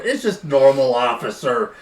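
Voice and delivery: lightly played tipsy guy, pitch riding up; mock tipsy excuse. Joking as a drunk suspect explaining to an officer, mock tipsy excuse. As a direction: make a half-serious tipsy excuse to police. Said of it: "a few too many wine coolers".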